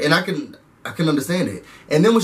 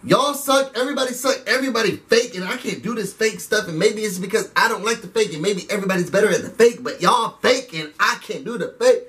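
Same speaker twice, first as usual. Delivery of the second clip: mock cussing rant; 4 semitones higher than usual. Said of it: "She cussing everybody out".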